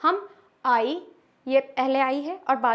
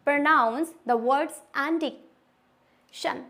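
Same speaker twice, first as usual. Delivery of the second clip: slow rule reading; much slower than usual. Shown as a demonstration. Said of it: "rule number seven".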